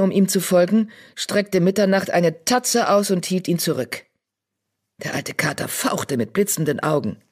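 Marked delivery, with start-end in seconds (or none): none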